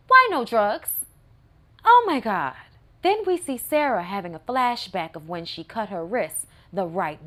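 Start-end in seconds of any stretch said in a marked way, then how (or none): 0.1-2.6 exasperated. Real, not acted.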